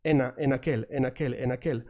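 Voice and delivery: en aquel run together, the N gliding into aquel; linked en aquel. Shown as a demonstration. Teacher linking en aquel for students. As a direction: link en straight into aquel with no break. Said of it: "you wanna say it like this".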